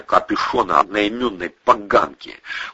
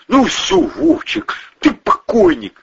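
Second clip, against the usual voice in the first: very high, heated threat; deadly threat; slower than usual. A narrator's reading. Boss assuring his pal he is finished, threatening. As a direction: pronounce his doom without any doubt. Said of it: "заверил Протасов таким голосом".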